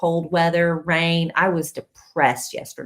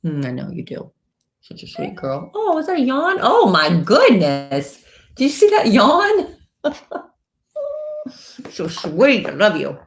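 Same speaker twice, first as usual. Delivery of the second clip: doggy talk. Real, not acted. Woman cooing at her dog as it yawns. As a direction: coo lovingly over her.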